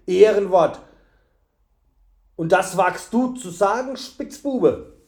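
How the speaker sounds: furious man scoffing at the thief's word of honour; mocking, angry man. A narrator's reading. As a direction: throw the boy's word back in his face. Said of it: "rief der Mann".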